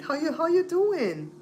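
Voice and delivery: high, slow Belizean lilt; Belizean-accented greeting. Shown as a demonstration. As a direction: show off the Belizean way of saying it. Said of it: "You like how I say it?".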